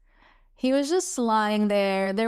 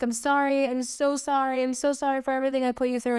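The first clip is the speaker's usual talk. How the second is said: mildly weepy retold apology, pitched up; higher, quickening imitation of tearful pleading; imitated tearful apology; 4 semitones higher, faster than usual. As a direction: pour out apologies as if near tears. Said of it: "he just started crying like crazy".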